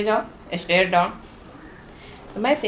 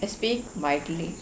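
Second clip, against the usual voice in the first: softer, slow gentle speech; 6 dB quieter, much slower than usual. Shown as a demonstration. Teacher showing kids how to speak gently, softly. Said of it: "speak gently".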